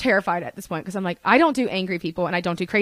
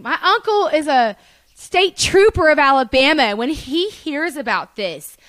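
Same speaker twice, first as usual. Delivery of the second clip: put-on privileged Southern boy; 4 semitones higher, 4 dB louder than usual. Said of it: "white trash privileged boy Southerner".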